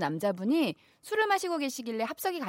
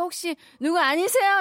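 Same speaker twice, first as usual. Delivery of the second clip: put-on drunk fan; 5 semitones higher, 5 dB louder than usual. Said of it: "취해서".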